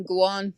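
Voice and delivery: "go on" slurred into one word, gowan; run together as one word. Shown as a demonstration. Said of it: "say it as a word".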